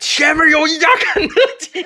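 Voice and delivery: very high, shrill, loud shout. Retelling how a man came back, opened the door, and shouted into the room. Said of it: "冲着屋里大喊了一声".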